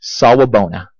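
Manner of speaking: the greeting said smoothly like a native; Zulu greeting. Shown as a demonstration. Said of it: "They say".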